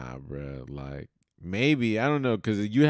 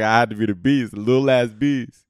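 mock Beast voice; 6 dB louder than usual. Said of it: "I was about to be like".

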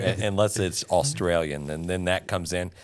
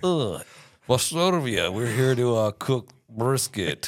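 louder, higher mock foreign accent; muddled European accent; 6 semitones higher, 4 dB louder, slower than usual. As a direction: put on a hammy, hard-to-place European accent. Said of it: "was that an Italian accent".

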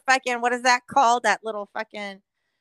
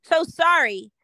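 sarcastic mock apology; 4 dB louder, slower than usual.

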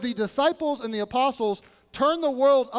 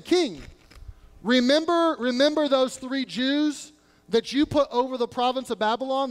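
accusing tattletale. Retold or imitated. Chaldeans complaining to the king about the Jews: mock indignation. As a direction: lay it on thick, whining to the king. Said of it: "almost ripe with".

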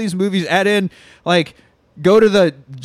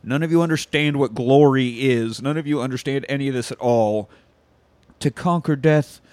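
solemn Jesus; 3 semitones lower, slower than usual. Retold or imitated. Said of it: "Jesus again's like".

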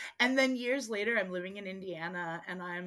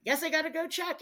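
higher, louder ditzy stepmom voice; a mock stepmom, pitched up and loud; 11 semitones higher, 7 dB louder than usual. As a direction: play the stepmom, caught off guard and airy. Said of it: "my stepmom's like".

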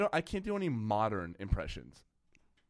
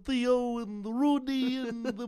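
much higher mumbled Cosby voice; Bill Cosby impression; 10 semitones higher, 3 dB louder than usual. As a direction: mush the words like Cosby. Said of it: "Bill Cosby impression".

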